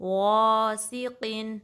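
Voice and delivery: غَاسِقٍ slow, heavy but not rounded to o; loud long first syllable in غَاسِقٍ, clear s; balanced heavy ghain. Shown as a demonstration. Teacher showing the balance, slow heavy غَاسِقٍ. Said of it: "balanced وے میں".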